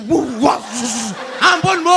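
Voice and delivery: put-on slow, pleading child voice; mock whimpering plea. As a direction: beg the teacher slowly, half crying. Kid begging teacher in toilet. (rengekan anak memohon ampun)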